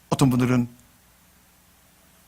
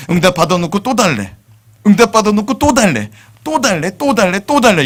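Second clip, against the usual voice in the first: rising louder and higher; building repetition; 6 semitones higher, 5 dB louder than usual. Real, not acted. Pastor stressing Abraham kept asking, building. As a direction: build it up each time.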